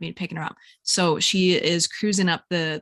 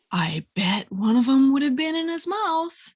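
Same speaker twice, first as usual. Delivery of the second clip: hushed aside; 5 semitones higher than usual. Real, not acted. Whispered grim aside.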